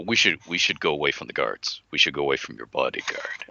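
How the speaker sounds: lightly voiced, hushed scheming vizier; a hint of a conspiring courtier. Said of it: "grand vizier say".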